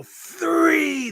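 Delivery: high yelled "three" like a wrestler on the mat; yelled count. Retold or imitated. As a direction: shout "three" up into his face. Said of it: "and go".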